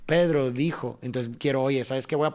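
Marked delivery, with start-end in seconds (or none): 0.1-1.0 "Pedro dijo" as two measured beats; accent PE and DI in "Pedro dijo"; rhythmic stress. Shown as a demonstration. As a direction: say "Pedro dijo" to a steady pulse. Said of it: "ahí empieza ahí la rítmica".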